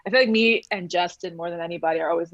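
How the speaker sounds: ordinary talk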